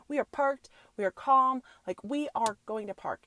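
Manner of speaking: hyped-up affirmation. Retold or imitated. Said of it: "I'm like".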